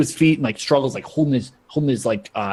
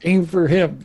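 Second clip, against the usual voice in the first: higher mock shout; shouted order; 6 semitones higher than usual. Game master as Heather aiming her goons, mock shouting. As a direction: bark it to the troops, half in play. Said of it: "You're, like, shouting".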